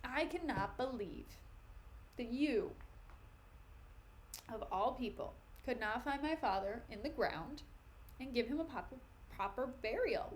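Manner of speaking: halting, mock-indignant complaint; lightly played hurt disbelief; acted upset. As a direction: act put out, pausing between phrases. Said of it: "So Laertes is pissed. He's really upset".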